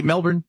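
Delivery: Melbourne said as MEL-bn, the second syllable reduced; Melbourne the Aussie way, "MEL-bn"; local pronunciation. Shown as a demonstration. Host correcting Melbourne to the local way, MEL-bn. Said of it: "not Melbourne".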